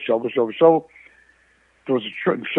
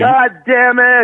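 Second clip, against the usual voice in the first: slow, higher, louder drawn-out curse; dad's curse on request; 7 semitones higher, 6 dB louder, much slower than usual. Shown as a demonstration. Friend asks him to do dad's line, slow mock shout. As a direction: do the dad's line slowly for the listener. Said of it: "Now, now, you".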